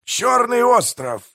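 gleeful. A narrator's reading. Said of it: "Пиви радостно посмеивался, потирая руки".

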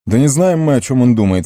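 high-pitched, heated objection; heated exclamation. A narrator's reading. Boromir disputes the wizard's guess about the enemy, heated exclamation. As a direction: burst out in exasperation, pitched high and loud. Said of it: "в сердцах воскликнул Барамир".

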